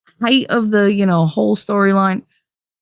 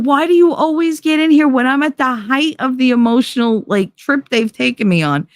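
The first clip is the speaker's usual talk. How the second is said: high frustrated complaint; exasperated; 7 semitones higher than usual. Retold or imitated. Mother complaining to her interrupting son, high and exasperated. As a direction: vent at the interruption. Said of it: "I'm like".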